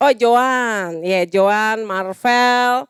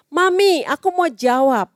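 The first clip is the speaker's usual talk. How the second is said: put-on eager child; 5 semitones higher than usual. Child voiced asking mother.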